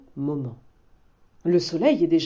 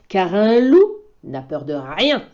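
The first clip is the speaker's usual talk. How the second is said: much higher and louder toward the howl; howling bear; 4 semitones higher, 7 dB louder than usual. Acted. Bear shows how a wolf howls, loud. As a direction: build to a howl. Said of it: "il hurle fort".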